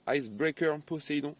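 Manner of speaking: English name in a French speaker's English accent; a little show-off English accent. Shown as a demonstration. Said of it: "vous avez entendu mon petit accent anglais".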